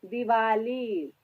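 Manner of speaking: slow, drawn-out "दिवाली" with dental द; soft-D Diwali. Shown as a demonstration. Teacher modelling a Hindi word, slow "दिवाली" with soft द. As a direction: stretch "दिवाली", tongue on the teeth for द. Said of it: "दिवाली Hindi word है".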